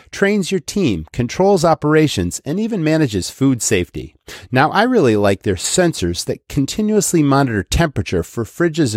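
upbeat sponsor read. Acted. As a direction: persuasive radio spot. Host reads sponsor ad.

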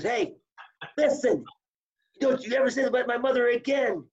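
stern rebuke. Retold or imitated. Coach rebuking wrestler over mother.

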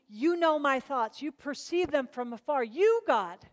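weight on each "You"; emphatic YOU. Acted. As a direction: hit every "You", slowing down. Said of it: "go back to that emphatic".

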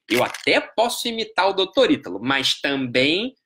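lightly voiced envious objector, last words dragged out; concede, then stretch out a hedging objection; invejoso relutante. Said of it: "O invejoso, ele faz o seguinte". (invejoso fazendo ressalva, arrastando o final)

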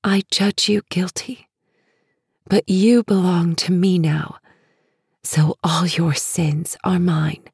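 hushed tender whisper; tiny soft voice. Acted. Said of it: "Her voice is tiny and soft".

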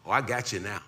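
ordinary talk

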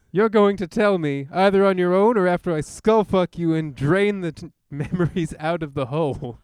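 angry hero. Acted. Hero threatens the villain for answers, hammy shouted threat. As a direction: overact a furious threat. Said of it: "you will be playing James Heller".

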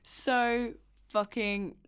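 very slow. Shown as a demonstration.

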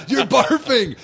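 shouted trainer taunt, high. Retold or imitated. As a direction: yell it up high like a coach. Repeats trainer line.

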